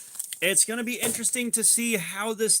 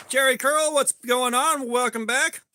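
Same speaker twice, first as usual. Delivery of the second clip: upbeat shout-out; 5 semitones higher than usual. Real, not acted. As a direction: hail the chatter like a streamer. Greeting a chat viewer by name.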